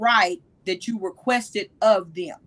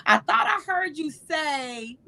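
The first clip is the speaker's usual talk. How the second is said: slow demo phrase; 5 semitones higher, 4 dB quieter, slower than usual. Shown as a demonstration. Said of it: "I've even been doing it with you".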